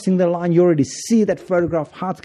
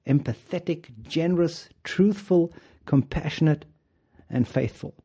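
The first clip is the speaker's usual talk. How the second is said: gentle grandfather; 3 dB quieter than usual. Retold or imitated. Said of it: "and then he says".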